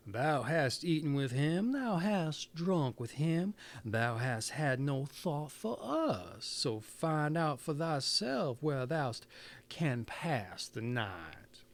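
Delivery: slow, measured chant of reproach; lightly voiced animals scolding in unison; animals' reproach. Animals rebuke the girl.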